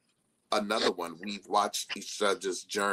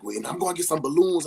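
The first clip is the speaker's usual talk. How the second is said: imitating her friend; 8 semitones higher, 5 dB louder, faster than usual. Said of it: "she was like".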